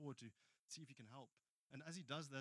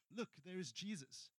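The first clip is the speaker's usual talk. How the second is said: higher, louder onlooker's cry; acted excited call, slowed and emphatic; 7 semitones higher, 7 dB louder than usual. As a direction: draw attention to someone approaching, voice lifted. Onlooker calls out on sighting Jesus.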